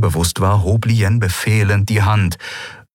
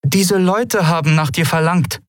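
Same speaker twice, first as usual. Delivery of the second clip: intimidated; 11 semitones higher than usual. Acted. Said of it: "begann ihre Mutter eingeschüchtert".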